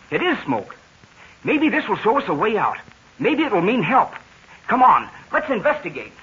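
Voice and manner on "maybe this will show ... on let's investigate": excited. Acted. Hopeful discovery of possible rescue.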